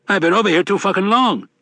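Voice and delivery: loud, cocky drinker's voice; rowdy leprechaun. A narrator's reading. Mad Sweeney voiced in narration.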